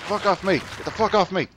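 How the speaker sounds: yelling at attackers in a game; angry yelling. Real, not acted. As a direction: shout them off you, annoyed.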